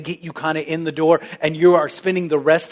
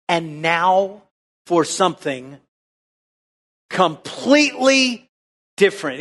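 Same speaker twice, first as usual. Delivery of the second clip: dramatic quote. Retold or imitated. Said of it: "To quote".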